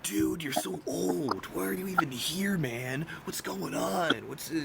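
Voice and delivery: hammed-up impolite objection, breaking into a laugh at the end; mock rude disagreement. Imitating someone who won't politely disagree, mock rudeness. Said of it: "politely disagree instead of going".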